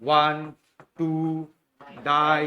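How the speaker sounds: shouted answer. Real, not acted.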